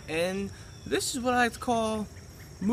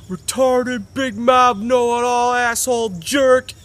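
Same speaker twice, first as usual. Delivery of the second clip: insult list; 6 semitones higher, 7 dB louder, slower than usual. Retold or imitated. Parent's insults, voiced in story.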